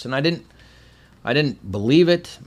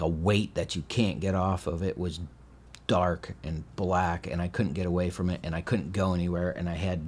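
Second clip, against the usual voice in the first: quiet and heavy; 5 semitones lower, 8 dB quieter than usual. Real, not acted. Describing depths of depression.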